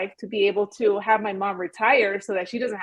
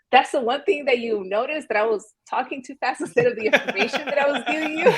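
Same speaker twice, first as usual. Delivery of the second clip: gasp, then higher-pitched mock disbelief; mock affronted; 3 semitones higher than usual. YouTuber retelling her reaction to viewers' comments, mock affronted. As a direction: play up being taken aback, half amused.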